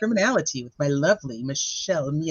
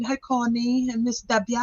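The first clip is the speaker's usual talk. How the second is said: lightly put-on London accent, drawn out; 4 semitones higher, slower than usual. Host greeting chat viewers, mock London accent. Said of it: "You sound like you're from London".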